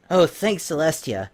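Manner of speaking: Rainbow Dash, high and strained with relief; breathless, strained thanks; high, strained voice of a worried pony. A narrator's reading. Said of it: "her voice strained".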